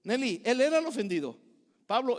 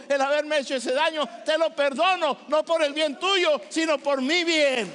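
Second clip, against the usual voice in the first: fervent preaching; 2 semitones higher than usual. Acted. Pastor urging his congregation to forgive, fervent and pleading. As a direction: press them hard to forgive, voice climbing.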